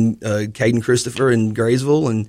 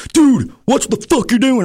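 imitated angry reply; 12 semitones higher than usual. Imitating the wrestler who shoved him: mock angry yell. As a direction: play the other guy snapping back.

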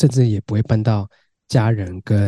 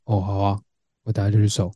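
flat home voice; 4 dB quieter than usual. Shown as a demonstration. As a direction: answer mom without interest. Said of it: "大概是这个语调".

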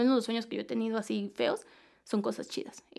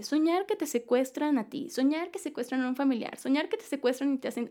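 higher-pitched listing of search results; reciting website entries; 3 semitones higher than usual. Acted. Tells friend what dream pages say, reciting a list. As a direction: read out each entry like a list item. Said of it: "en una sola página te dice".

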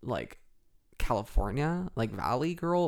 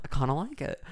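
lightly put-on Australian; Australian accent; 2 semitones higher than usual. Shown as a demonstration. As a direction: slip into a casual Australian accent. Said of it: "in the Australian accent".

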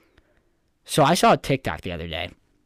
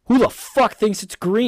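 outraged disbelief; 10 semitones higher, 4 dB louder than usual. Real, not acted.

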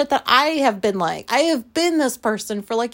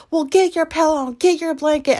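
annoyed wife; 7 semitones higher, 4 dB louder than usual. Retold or imitated.

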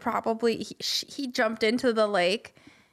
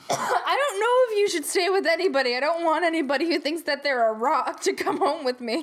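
laughing stranger; 3 semitones higher than usual. Acted. Acted wary passer-by, laughing.

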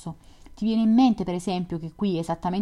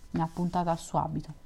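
a quick, slightly softer corrected reading; corrected reread; 4 dB quieter, faster than usual. Real, not acted. Reader fixing the misread word, quick corrected reread. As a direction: reread the line right, quickly and a bit softer. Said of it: "non strappata, scusate".

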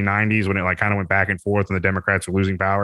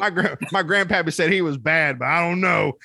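mock redneck cop; 7 semitones higher than usual. Mocking Southern cops questioning the German exec, in a high hammed-up hick voice. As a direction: ham up a clueless hick.

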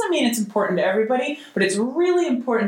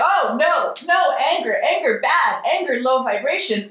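mock panic; 4 semitones higher than usual. Mocking someone who panics at their own anger, alarmed. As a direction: ham up a panicked overreaction to anger. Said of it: "you could be like".

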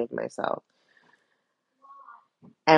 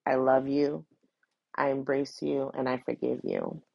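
repeated gently, fading quieter; tender forgiveness; 5 dB quieter than usual. Shown as a demonstration. Repeating forgiveness to the confused person, tender and quiet. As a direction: say it again, softly and patiently. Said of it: "like I said".

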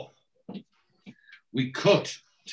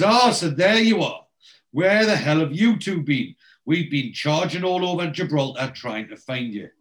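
loud, higher-pitched exasperated greeting; raised voice, acting put out; mock scolding; 5 semitones higher, 5 dB louder than usual. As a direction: scold them for keeping you waiting. Oz acted scolding the late arrivals.

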